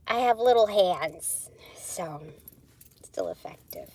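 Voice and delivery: whispered aside. Real, not acted. Whispering an aside to her viewers. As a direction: let them in on a secret.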